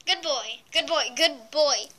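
put-on slow, loud good boy; praising a pet. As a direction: praise him like a dog.

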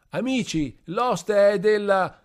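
put-on drunken yell. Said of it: "cominciava a urlare più forte ancora".

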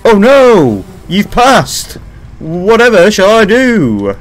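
hammed-up theatrical distress; mock dismay. Gamer lamenting a death in jest, mock dismay. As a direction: play at being helpless, drawing out the question.

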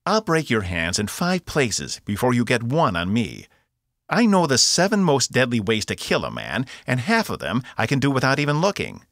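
high, loud bragging threats; loud cocky bravado; loud boast. A narrator's reading. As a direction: puff up and taunt the guard. Box trading threats with guard.

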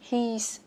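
"He's" as one syllable ending in S; contracted form. Shown as a demonstration. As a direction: say "He's" short for "he is", S sounded. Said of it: "có thể phát âm là he's". ("He's" đọc gọn một âm tiết, có âm S)

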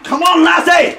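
high loud Irish cheer; Irish accent shout. Pretend. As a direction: yell it like an Irish fan.

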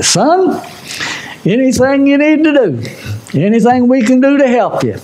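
high, gentle coaxing pastor; lightly voiced kind old pastor; pastor's kind offer. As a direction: lift the voice to coax a lost soul. Pastor kindly voiced at the altar.

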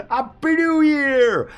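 high, slow, laughing yell; laughing shout. Real, not acted. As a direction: laugh it out loud and stretched.

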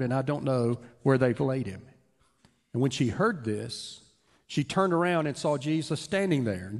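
measured reading of the Gospel aloud; scripture reading. Acted. Pastor reading scripture to the congregation, measured and steady. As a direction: read the passage steadily to the congregation.

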